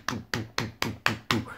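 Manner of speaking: heartbeat noise. Shown as a demonstration. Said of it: "heart is doo".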